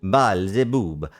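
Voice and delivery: put-on lightly theatrical foreign accent; exasperated stage showman, mildly hammed-up; bickering European showmen. Showman complains about the Balzebub act, lightly stagey accent.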